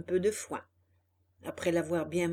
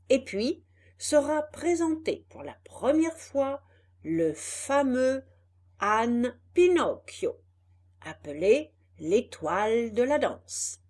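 announcer voice; 2 semitones higher, 3 dB louder than usual. Acted. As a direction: proclaim it like a poster. Poster read as announcement.

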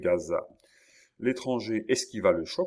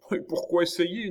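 high, confident burst; enthusiastic; 11 semitones higher, 4 dB louder than usual. A narrator's reading. Young hairdresser rejecting a trial, enthusiastically. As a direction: challenge it with eager confidence. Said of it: "dans un moment d'enthousiasme".

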